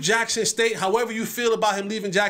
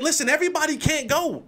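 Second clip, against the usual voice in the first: quoting Deion; 6 semitones higher than usual. Retold or imitated. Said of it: "He said".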